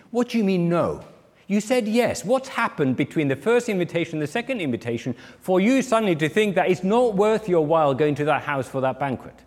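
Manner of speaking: acted incredulity, pitch lifted on the questions; mock shocked challenge. The community confronts guests who refused the banquet, acted incredulity. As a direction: demand an explanation, mildly scandalised.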